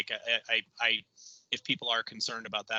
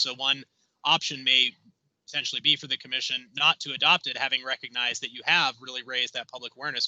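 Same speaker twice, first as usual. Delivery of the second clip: a bit louder, projecting to be heard; speaking up; 4 dB louder than usual. Real, not acted. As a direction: lift the voice so the room hears. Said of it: "I'll try and speak up".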